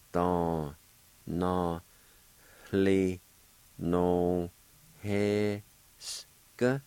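Don, na, li, no, he, sk spelled out syllable by syllable with a faint h before he. Shown as a demonstration. Teacher breaking the word into syllables for learners. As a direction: break it into slow separate syllables. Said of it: "it's gonna sound like this".

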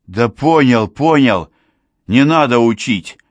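loud, irritated retort; snapping back. A narrator's reading. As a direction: snap back, fed up with being lectured. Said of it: "огрызнулся Глушков".

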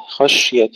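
خشية with a vowelless, hissing sh; slow خشية, shin spread without a bounce; whispering-spread shin. Shown as a demonstration. Teacher showing the correct خشية, sh held without echo. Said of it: "ننتبه أن لا نقلقلها".

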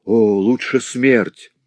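loud desperate cry; exclaiming. Acted. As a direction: wish for death aloud. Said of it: "воскликнул".

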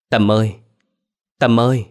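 loud, rising desperate call; shouting the boy's name in alarm; frantic calling. Acted. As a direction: call out to him in panic. Calling the collapsed boy.

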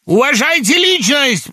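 high, loud, slow cry of outrage; hysterical outburst. A narrator's reading. Laevsky interrupting Samoylenko, a high slow outraged cry. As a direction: cut him off, high and slow. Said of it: "перебил его Лаевский".

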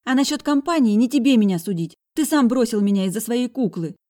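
put-on high, loud resentful girl's voice; angry girl. A narrator's reading. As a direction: fire it back at him. Sister keeps arguing.

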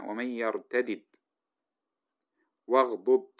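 ومن يرتدد and واغضض with both d sounds kept apart, slow; unmerged doubled letters. Shown as a demonstration. Teacher reading the verse with the doubled letters unmerged. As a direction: spell out يرتدد with the two d's separate. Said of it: "هكذا فك الإدغام".

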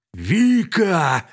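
loud panicked yell; yelling for help. A narrator's reading. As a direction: bellow her name in panic. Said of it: "заорал босс". (отчаянный крик)

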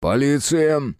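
stern. A narrator's reading. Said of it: "сурово ответил Терентьев".

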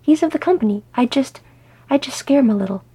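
high-pitched, wheedling self-defence; protesting. Acted. Glóin insisting he would only scare him, protesting. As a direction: protest it, faltering midway. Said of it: "he protested".

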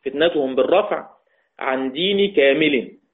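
عن دين كامل drawn out slowly; slow recitation. Shown as a demonstration. Teacher repeating the verse a second time, slowly. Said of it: "تاني".

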